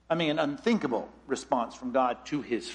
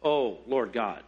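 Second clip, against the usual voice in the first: slow begging; slower than usual. Acted. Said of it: "He uses strong language".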